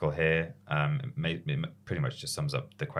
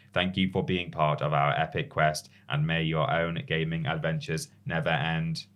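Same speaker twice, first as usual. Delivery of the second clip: robot voice. Pretend. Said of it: "Can you read it like a robot?".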